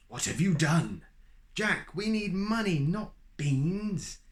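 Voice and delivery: mother cries out at Jack, high and cross; angry mother. Acted. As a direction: scold him for the beans. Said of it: "cried his mother".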